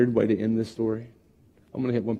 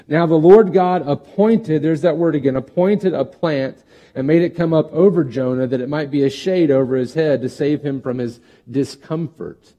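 raised, earnest Bible reading; scripture reading; 4 dB louder than usual. Acted. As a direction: read the verses out to the church. Reads scripture passage.

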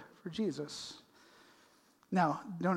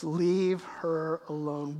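slow, softer stretched-out words; a hint of quiet command; much slower than usual. Jesus quietly stopping the scolders, slow. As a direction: let the command sink in slowly. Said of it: "And Jesus says".

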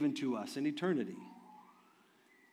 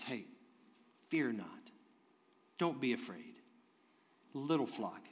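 tender; 4 semitones lower, 8 dB quieter than usual. Retold or imitated. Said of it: "Jesus is speaking tenderly to them".

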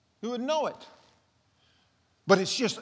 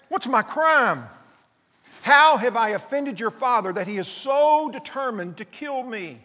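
loud, pleading questions; desperate plea; 2 semitones higher, 5 dB louder than usual. Acted. David begging Jonathan to explain, loud and pleading. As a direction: demand an answer from your friend.

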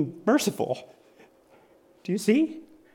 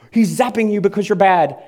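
mock angry God; 3 semitones higher, 6 dB louder, faster than usual. Mocking an angry zapping God.

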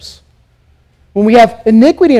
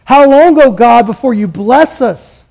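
lamenting plea. Acted. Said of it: "This is asking God".

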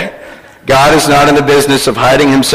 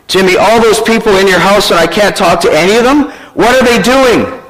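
lightly acted baffled caller, higher voice; puzzled, higher questioning, slowing at the end; telemarketer; 6 semitones higher than usual. Telemarketer unable to reach any adult, baffled higher voice. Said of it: "A telemarketer".

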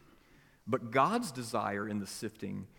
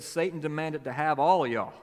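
put-on louder Mississippi accent on all of y'all; Mississippi drawl; 5 dB louder than usual. Preacher recasting the verse in a Mississippi accent. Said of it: "if this happened in Mississippi".

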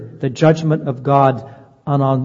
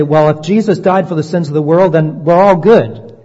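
mock complacent voice; 2 semitones higher, 4 dB louder than usual. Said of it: "We would say".

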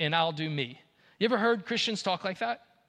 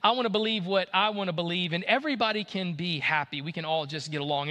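mocking the relativist. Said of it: "And they say".

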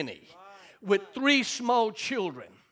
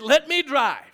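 imitated wife; 5 semitones higher, 6 dB louder than usual. Wife's words acted out.

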